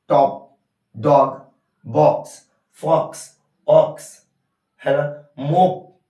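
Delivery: short O said quickly in each word; crisp, short-vowel word drill. Shown as a demonstration. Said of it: "तो ये जल्दी ओ बोल देते हैं".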